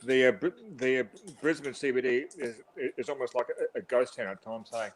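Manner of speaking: talking with food in mouth; chewing while talking. Real, not acted. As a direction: speak around a bite of sandwich. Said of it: "Stop trying to talk while you're eating".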